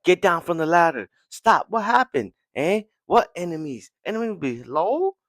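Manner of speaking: high, loud confused shouting; panicked soldiers. Retold or imitated.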